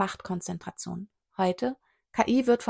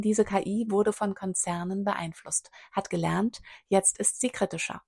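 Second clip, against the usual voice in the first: unvoiced whisper, leaning in. Speaker confides to the audience about the AI, whispering. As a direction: let it slip out in a hushed whisper.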